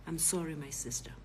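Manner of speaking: gentle, subdued sorry; honest apology. Retold or imitated. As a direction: imitate a man apologising earnestly. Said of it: "honest at this moment".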